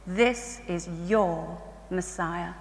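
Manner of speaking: slow, hushed and solemn; solemn tender quote. Retold or imitated. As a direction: lay it on her gently and slowly, like a revelation. Tender quote to the Jewish woman.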